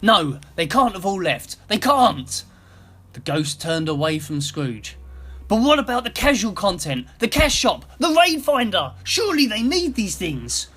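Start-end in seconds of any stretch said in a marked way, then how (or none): 0.0-2.4 loud, high, refusing to believe it; desperate denial. A narrator's reading. Scrooge denying to the ghost that all left, desperate. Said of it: "with desperation in his voice". 5.5-10.7 high, loud pleading, climbing in panic; frantic. A narrator's reading. Scrooge pleading with the silent ghost, frantic. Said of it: "started acting frantic".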